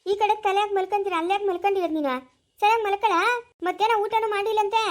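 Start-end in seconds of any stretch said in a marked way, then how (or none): 2.6-4.8 raised voice, scolding; mother scolds her son, louder. Acted. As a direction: order him to lie down properly.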